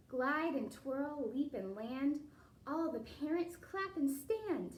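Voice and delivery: lilting storybook read-aloud; reading to children. A narrator's reading. Teacher reading a ballet picture book to the class, lilting read-aloud. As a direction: read the rhyme to the kids with a bounce.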